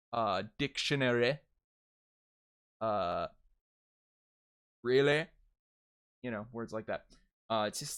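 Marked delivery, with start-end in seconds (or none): 0.6-1.4 DICTIONARY ending in an open 'ih', near 'eh'; emphasized British ending. Shown as a demonstration. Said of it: "a little bit more emphasis on the I". 4.8-5.3 REALLY ending in an open 'ih', near 'eh'; louder REALLY, leaning on the final 'ih'; emphasized British ending. Shown as a demonstration. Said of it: "a little bit more emphasis on the I".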